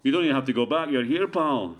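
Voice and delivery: light Scottish accent, teasing; a hint of Glasgow banter. Shown as a demonstration. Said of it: "I love your accent".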